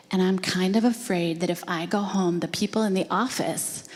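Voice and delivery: imitating a child confessing, with long pauses; careful, hesitant child's explanation; halting confession. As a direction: spell it out haltingly, phrase by phrase. Retold child explains his fear.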